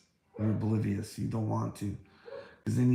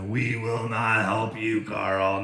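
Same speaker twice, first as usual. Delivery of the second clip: mocking critics; 4 dB louder, slower than usual. Vlogger mimicking the people who call him crazy, mock-pompous. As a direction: sneer it out slowly like a smug authority.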